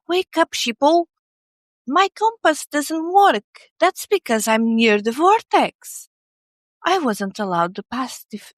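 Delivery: breathless wake-up-sheeple alarm; alarmist doom warning. Retold or imitated. Quoting viral conspiracy video claims.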